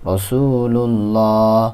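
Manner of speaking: রসুলুল্লাহ drawn out very slowly, every syllable held; slow recitation. Shown as a demonstration. Teacher modelling the word for students, very slow. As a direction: sound out রসুলুল্লাহ at a crawl. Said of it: "হরকতের উচ্চারণ দিয়ে পড়া হয়".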